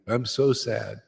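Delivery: plain, droopy "I'm so sad"; mock gloom. Preacher mocking drunk mood swings, mock gloomy voice. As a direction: drop flat into mock sorrow on "sad". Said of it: "and the next day".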